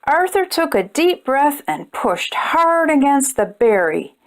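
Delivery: gentle storybook narration for little ones; measured picture-book read-aloud; reading to children. A narrator's reading. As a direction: read it like bedtime story time.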